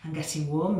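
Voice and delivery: breathless, a little winded; out of breath. Real, not acted. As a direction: talk while winded from squats. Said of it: "I'm getting out of breath".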